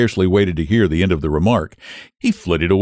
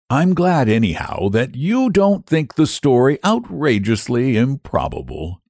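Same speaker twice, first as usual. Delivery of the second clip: warm; 3 semitones higher than usual. Acted. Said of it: "He threw a good deal of warmth into the last remark".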